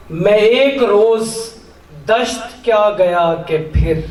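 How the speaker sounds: measured Urdu couplet recital with pauses between phrases; declaimed mushaira couplet; poetry recital. Acted. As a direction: recite the verse line by line, lifting the opening words.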